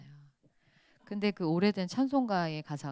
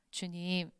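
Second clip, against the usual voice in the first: 푸념; 8 dB quieter than usual. Retold or imitated. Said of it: "막 이럴 때가 있어요".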